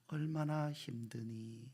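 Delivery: soft, slow, gentle voicing of God; tender question. God asking a weary Hagar, soft and slow. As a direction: ask it like comforting a hurting child.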